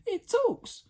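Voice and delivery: very high, shocked shriek; startled scream. Acted. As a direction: shriek at a talking blob. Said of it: "and Jemima screamed".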